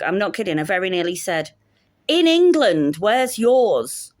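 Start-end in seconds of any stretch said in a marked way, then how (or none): 2.1-4.1 high, loud mock outrage; indignant retort. Cook's unspoken comeback to the guest, indignant. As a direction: fire back at a rude guest, pitch raised. Acted retort she nearly said.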